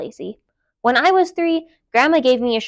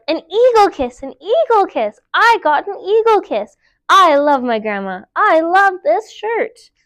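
high, thrilled cries; excited yelling; 7 semitones higher, 4 dB louder than usual. Acted. Girl thrilled by an eagle kiss, high excited yelling. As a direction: shout it with pure joy. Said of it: "Lacey yelled".

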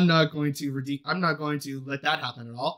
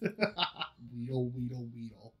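Pokemon cry; 4 semitones lower, 13 dB quieter, slower than usual. Pretend. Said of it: "Sounds like a Pokemon".

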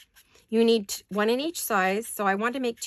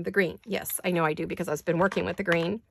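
hiccups. Real, not acted. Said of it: "Excuse me, I have the hiccups".

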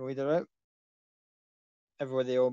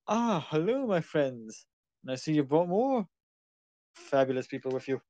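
a hint of a flamboyant greeter, opening higher and louder; flamboyant shopkeeper; 3 semitones higher, 3 dB louder than usual. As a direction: greet them with showy delight. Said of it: "The usual flamboyantly, uh, done boy".

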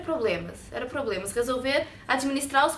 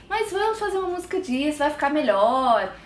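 carefree samba optimism; 5 semitones higher, 5 dB louder than usual. Retold or imitated. Contrasting Portugal's fado with Brazil's samba, lightly sung-out cheer. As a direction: play the sunny Brazilian who turns trouble into song. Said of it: "vivia o samba".

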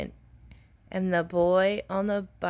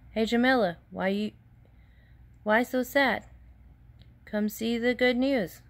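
cheerful call; 4 semitones higher than usual. Acted. Archie calls out cheerfully.

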